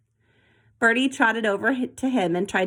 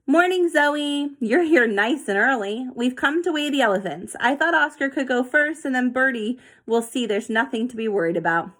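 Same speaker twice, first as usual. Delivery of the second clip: cheerful zookeeper; 4 semitones higher than usual. Acted. David greets Zoe cheerfully.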